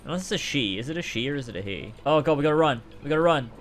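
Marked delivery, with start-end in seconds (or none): 2.1-3.5 louder, rushed go go go; frantic urging. Real, not acted. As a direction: hurry them on in a panic. Fleeing creatures in game.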